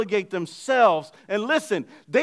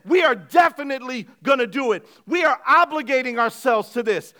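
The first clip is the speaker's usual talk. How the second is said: firm vow. Retold or imitated. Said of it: "No, they said".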